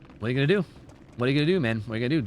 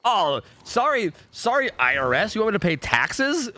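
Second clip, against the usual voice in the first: mock sarcastic; 7 semitones higher than usual. Mock talking back to IRS.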